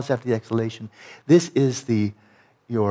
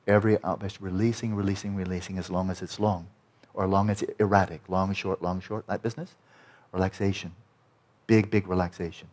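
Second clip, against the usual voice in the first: soft guiding voice; 3 semitones lower, 5 dB quieter than usual. Shown as a demonstration. Guiding release, softer.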